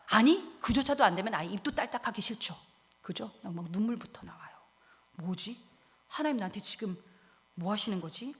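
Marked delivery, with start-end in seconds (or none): 5.1-8.3 soft, halting question to God; bewildered murmur. Acted. Believer in tears asking God why, bewildered murmur. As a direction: murmur in dazed disbelief.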